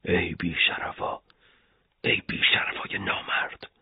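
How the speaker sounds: low-volume, whispered curse; muttering under breath. A narrator's reading. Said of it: "آخرش زیر لب گفت".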